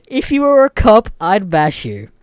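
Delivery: mock the threat in a high, loud voice; mocking repeat. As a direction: parrot his threat with loud high ridicule. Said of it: "What does that even mean".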